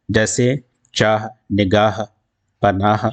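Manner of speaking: final h audible in چاہ، نگاہ، پناہ; clearly sounded h. Shown as a demonstration. Teacher giving examples of the pronounced haa, final h sounded. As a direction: breathe out a distinct h ending each of چاہ، نگاہ، پناہ. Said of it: "صاف صاف تلفظ میں آئے".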